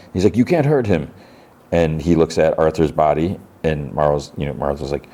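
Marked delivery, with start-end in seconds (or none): 0.4-1.1 high-pitched imitation of begging; acted pleading. Boy protects friend from leader, high acted plea. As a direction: beg high without raising the volume.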